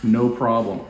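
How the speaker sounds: lightly voiced, nonchalant generosity; mock casual Jesus. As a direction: brush off a huge request like nothing. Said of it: "He's like".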